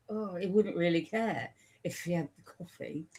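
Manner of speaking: a light hint of a drunk pirate, lazy and careless; half-hearted imitation of a tipsy pirate captain; tipsy Jack Sparrow. Friend imitates a drunk pirate, lightly voiced. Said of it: "Jack Sparrow, who's just a bit drunk".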